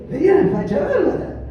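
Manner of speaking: laughing loudly at himself; open laugh. Real, not acted. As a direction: let the laugh burst out. Repeats it, laughing openly.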